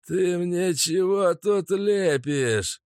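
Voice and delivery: slow, cold furious boss; steely rage. Acted. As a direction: menace him with steel in the voice. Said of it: "звенящая сталью ярость".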